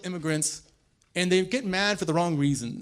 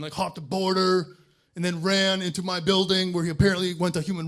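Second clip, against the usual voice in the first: mock aggrieved whining; 3 semitones higher, 3 dB louder than usual. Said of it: "I would not go like".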